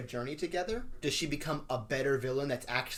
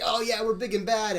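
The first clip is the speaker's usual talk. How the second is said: higher, louder mock tough guys; tough villain boast; 8 semitones higher, 7 dB louder than usual. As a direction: puff up like a big bad villain.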